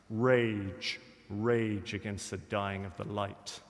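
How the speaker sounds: slow, measured poetry recitation; poem recital. Acted. Schoolroom speaker recites Dylan Thomas's poem to his dying father, solemn recital. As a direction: recite with weight, each line set apart by pauses.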